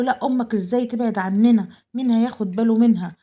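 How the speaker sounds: a daughter-in-law's loud, put-on worry; mock protest. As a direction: protest loudly, with false concern. Wife objecting to him, quoted.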